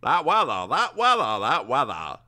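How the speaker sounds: lightly voiced grumpy old-timer; old man voice. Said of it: "He's a bit one note".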